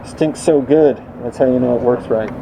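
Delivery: muffled behind a respirator mask; through a respirator. Real, not acted. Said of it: "I'm still speaking through my respirator".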